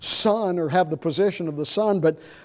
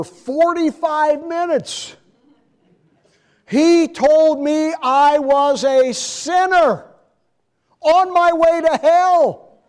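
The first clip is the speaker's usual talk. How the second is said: much higher, louder and slow; fiery preaching; 11 semitones higher, 8 dB louder, slower than usual. Retold or imitated. Custodian cornering a young man about hell, loud and slow. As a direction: hammer it home like a street preacher.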